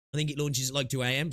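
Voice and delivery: talking through the hiccups; hiccuping between words. Real, not acted. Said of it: "Sorry, I got the hiccups".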